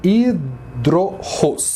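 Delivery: "hidrorros" very slowly, stressed on "ros"; teacher pronounces "hidrorros" very slowly; slow Greek word. Shown as a demonstration. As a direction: stretch out "hidrorros" and land on "ros". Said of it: "A sílaba mais forte é ros".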